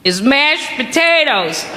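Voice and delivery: slow, solemn mock politician. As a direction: announce it gravely like a politician on TV. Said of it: "go on T V and go".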